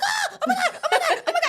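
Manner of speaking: high laughing panic shriek; retold panic in a dark shower; freaking out. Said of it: "I just remember freaking out".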